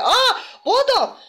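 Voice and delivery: drawn-out high "Aa" of recognition; slow surprised Aa, bu adam; delighted surprise at the critic; surprised gasp. Real, not acted. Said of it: "Aa, bu bize dedim ya".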